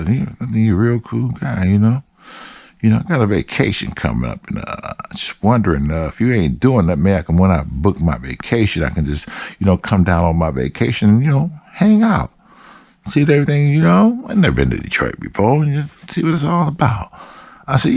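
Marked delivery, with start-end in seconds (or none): 0.0-4.5 a light imitation of a friendly caller; slightly raised put-on voice, feeling his way; Ron. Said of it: "that's how he talks". 4.5-17.1 lightly imitated hesitant caller; hesitant pitch with a touch of put-on voice; Ron. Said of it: "that's how he talks".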